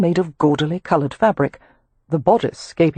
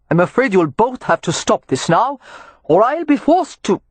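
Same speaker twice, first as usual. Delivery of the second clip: reasonable warning; 5 semitones higher than usual. Acted. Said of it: "excessively reasonable tone".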